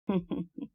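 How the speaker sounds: quiet, breathy chuckle; soft snicker. Acted. Laugh between conspirators' remarks. (ضحكة مكتومة)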